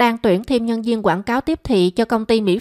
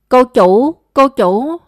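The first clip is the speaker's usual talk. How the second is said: panicked call; 3 semitones higher, 5 dB louder, slower than usual. A narrator's reading. Maid panicking about missing daughter.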